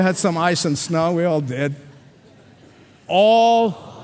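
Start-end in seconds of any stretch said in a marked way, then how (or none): 3.1-4.0 All called out louder and higher; enthusiastic call. Shown as a demonstration. Congregation asked to answer with enthusiasm, All shouted out. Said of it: "Say it with enthusiasm".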